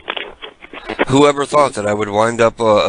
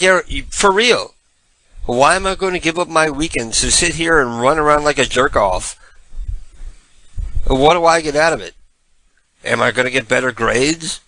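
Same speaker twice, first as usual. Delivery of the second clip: retold defiance; 3 semitones higher than usual. Retold defiant reply to coach.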